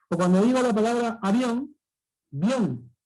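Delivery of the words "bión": "bión" in one falling syllable; lower-pitched, isolated "bión", I gliding into O; diphthong demo. Shown as a demonstration. Teacher shows the two vowels in avión, "bión" in one beat. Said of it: "ahí hay dos vocales".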